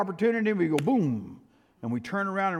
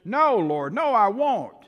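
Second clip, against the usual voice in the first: rising, higher protest; indignant Peter; 5 semitones higher, slower than usual. Acted. Peter insisting to Jesus he won't deny him. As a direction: protest as if insulted.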